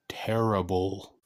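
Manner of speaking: slow, breathy whispered verdict; hushed, drawn-out terrible; mock whisper. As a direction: whisper it like a dark secret. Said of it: "I do not know what that was".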